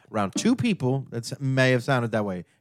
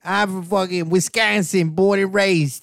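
1 mock Wisconsin accent; 4 semitones higher than usual. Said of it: "that New York accent".

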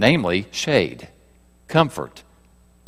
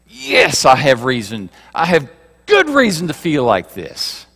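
raised defiant voice; 4 semitones higher than usual. Retold or imitated. A believer raising their voice to justify their anger. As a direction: raise your voice and dig in. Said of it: "and we raise our voices".

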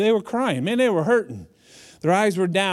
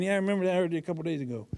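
wry understatement; 7 dB quieter, much faster than usual. Retold or imitated. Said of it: "kinda rubbing his temple going".

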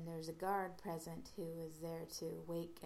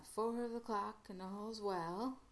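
drawn-out Somerset call, higher and louder; Somerset drawl; 5 semitones higher, 6 dB louder, slower than usual. Retold or imitated. Garon passing the Doctor and Romana, Somerset drawl. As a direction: call it out slowly in a rustic Somerset accent. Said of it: "in a drawl says".

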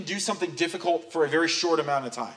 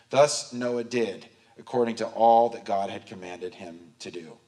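measured, lower-pitched Bible reading; scripture reading; 6 semitones lower than usual. A narrator's reading. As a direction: read the verse out evenly and solemnly. Reads scripture aloud.

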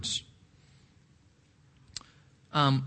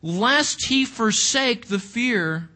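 pitched up in earnest, mild reproach; mild rebuke; 4 semitones higher than usual. Acted. Despairing man answering his discouraging friend, in mild rebuke. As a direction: gently chide a friend, higher and emphatic. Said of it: "It's a mild rebuke".

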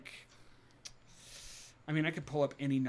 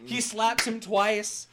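slow dramatic narration; 8 semitones higher, 6 dB louder, slower than usual. A narrator's reading.

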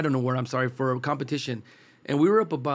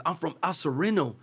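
put-on lightly accented kid from El Sereno; imitated local accent; 3 semitones higher than usual. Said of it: "with an accent".

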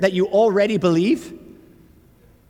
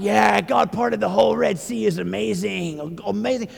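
mock amazement; 4 semitones higher than usual. Voicing believers awed by miracle.

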